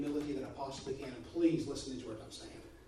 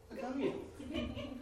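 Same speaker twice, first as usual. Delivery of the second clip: laughing; 9 semitones higher, 6 dB quieter, much slower than usual. Pretend. Jokingly agreeing he is handsome.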